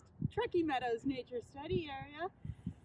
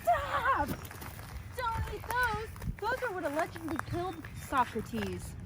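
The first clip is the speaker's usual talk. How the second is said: urgent shout; 3 semitones higher than usual. Acted. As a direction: yell to stop them eating it. Stopping someone eating poison.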